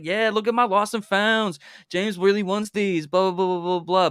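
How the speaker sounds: teasing, put-on gloating; mocking imitation. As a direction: exaggerate their showing off, trailing into blah-blah. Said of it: "They didn't say it like that".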